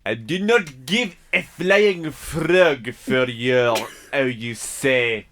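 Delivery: slow mock French accent; hammed-up French speaker. Frenchman arguing about salad, slow mock French accent. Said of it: "continue arguing in French".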